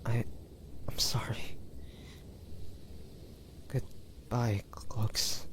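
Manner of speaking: faint, fading whispered goodbye; dying whisper. Acted. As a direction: breathe out a final farewell. Last words before dying.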